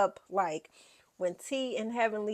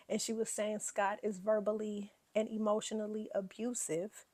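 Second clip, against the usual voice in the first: gossipy whisper; 5 dB quieter than usual. Real, not acted. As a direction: whisper it like a secret. Gossipy aside about abuse claim.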